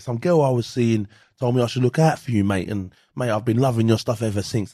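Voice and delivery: light imitation of an English accent; hint of an English accent on mate. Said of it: "when he sometimes gets a bit of an English accent".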